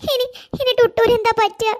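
crying. Acted. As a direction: stammer the fear out while crying. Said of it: "നീ ഇങ്ങനെ കരയാൻ". (വിതുമ്പലോടെ)

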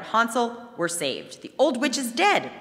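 high loud cry of relief; joyful cry. A narrator's reading. Gretel telling Hansel they are saved, a high joyful cry. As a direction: call out the good news. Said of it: "and cried out".

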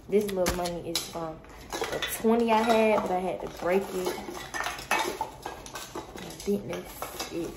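jittery and restless, rushing words; nervous buzzing energy, can't sit still. Real, not acted. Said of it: "I'm all jittery".

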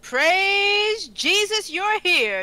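slow, loud, high cry of relief; a ghost begging the heroes; relieved plea. Acted. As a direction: throw yourself on their mercy. Player's desperate ghost relieved.

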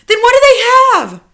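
fast, high, loud question; astonished cry. A narrator's reading. Child demanding an answer from grandmother, astonished cry. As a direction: fire the question out in loud disbelief. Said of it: "I cried".

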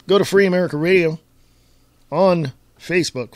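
rattled-off radio plug; fast. Real, not acted. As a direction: run the name together quickly. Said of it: "I know I say that so fast".

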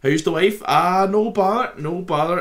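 broad friendly Irish chat; Irish accent. Retold or imitated. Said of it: "And I'm like".

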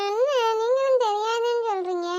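put-on a child's soft tearful complaint; whiny crying. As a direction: whimper it like a sulking little girl. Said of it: "இந்த பிள்ளை இப்படி அழுகுது?".

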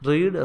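റീഡ് said with a long "ee", like "reed"; present-tense pronunciation. Shown as a demonstration. Teacher repeating present-tense "read" for learners, റീഡ് with long "ee". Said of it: "ഇതിൻ്റെ pronunciation different ആണ്".

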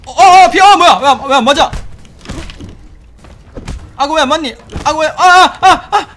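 high, loud frantic yelps; panicked screaming. Real, not acted. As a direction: flail in panic. Crocodile attacks, panic.

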